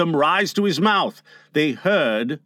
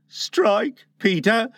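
raised, firm, resigned command; 6 semitones higher, slower than usual. Acted. Tootles bares his breast, firm. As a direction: say it firmly, pitched up, unflinching. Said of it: "he said firmly".

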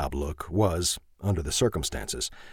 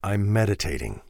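calm. Acted. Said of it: "he said calmly".

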